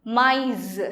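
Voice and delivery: MAIS with both vowels sounded apart; vowels separated. Shown as a demonstration. Teacher repeating the example for learners, MAIS with separated vowels. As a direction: sound the two vowels of MAIS one after the other. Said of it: "two vowels and we separate it".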